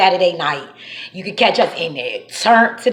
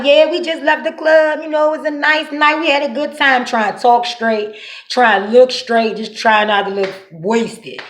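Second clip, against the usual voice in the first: fake sober innocence; 3 semitones higher than usual. Faking sober politeness to officer.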